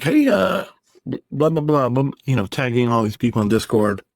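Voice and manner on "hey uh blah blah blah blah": mock bossy guildmate. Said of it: "came back and he's like".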